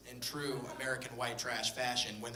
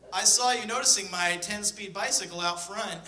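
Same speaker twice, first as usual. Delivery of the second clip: put-on bragging kid; 6 semitones higher, 6 dB louder than usual. Nine-year-old showing off to babysitter.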